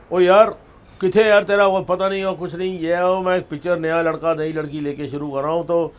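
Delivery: loud, high, hearty Punjabi-tinged greeting that calms down by the end; a big producer booming down the phone line; boisterous producer on phone. Retold or imitated.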